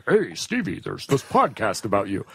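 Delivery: bad, high-pitched celebrity impression in reply; a famous singer. Podcast host imagining the maestro hearing of the show, bad impression. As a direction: do a hammed-up singer's eager reply, badly. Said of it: "That was the worst impression of that singer".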